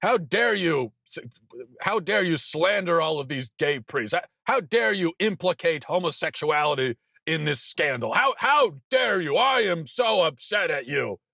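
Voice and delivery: mock outrage. Parodying scolding messages from critics, mock outraged whine. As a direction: parody a scandalized critic, rising to a peak. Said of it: "messages ... saying".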